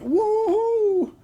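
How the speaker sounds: high, loud mock cheer; playful imitated whoop. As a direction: whoop like a happy soldier. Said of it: "They're like".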